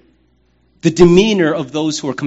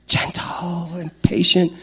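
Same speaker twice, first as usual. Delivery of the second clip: slow, sneering mock of soft virtues; a preacher mocking the tough guy's view of kindness; mocking sissy voice; 4 dB quieter than usual. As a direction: scoff at it like it's weak. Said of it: "That sounds like sissy stuff".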